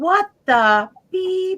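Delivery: very high, loud, exclaiming yell. Retelling what the teenage daughter yelled at the newspapers: imitating daughter yelling. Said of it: "she just yelled".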